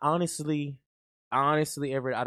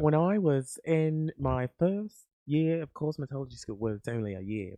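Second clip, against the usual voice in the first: lightly played London accent; put-on London accent. Shown as a demonstration. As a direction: tell it as a pretend Londoner. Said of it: "thought we were from London".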